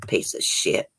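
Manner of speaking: disgusted whispered curse under the breath; breathy whispered insult, barely audible. Real, not acted. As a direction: hiss it out in disgust, unvoiced. Reacting to the abuse story.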